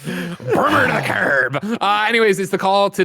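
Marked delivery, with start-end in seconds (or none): 0.1-1.8 slow, drawn-out jokey voice; mock line in a slow put-on voice. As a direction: drag it out as a joke.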